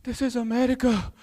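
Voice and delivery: hushed mock-earnest fatherly advice; Hassan Minhaj's dad. Immigrant father reassuring his son, earnestly. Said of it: "my dad was like".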